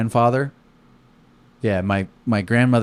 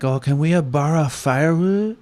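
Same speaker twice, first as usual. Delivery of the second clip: lightly put-on Asian accent, slow and higher; 6 semitones higher than usual. Campers ask the grandfather for firewood, mild Asian accent. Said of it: "they're like".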